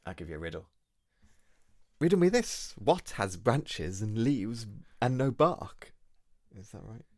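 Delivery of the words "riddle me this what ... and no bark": Riddler voice. Pretend. Sets a riddle, Riddler catchphrase.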